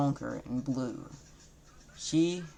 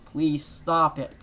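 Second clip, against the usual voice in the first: slow, louder pleading wail; mild wail; 6 dB louder, slower than usual. Acted. Kurama begging Naruto to quit rhyming, slow louder wail. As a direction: drag it out begging him. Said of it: "Kurama wailed".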